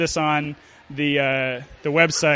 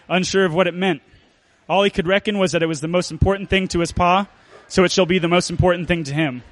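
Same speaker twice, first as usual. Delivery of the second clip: lightly put-on storyteller narration; measured, mildly dramatic tale-telling. Reading a Dust Bowl tale to an audience, storyteller voice. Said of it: "read it in the voice of the storyteller".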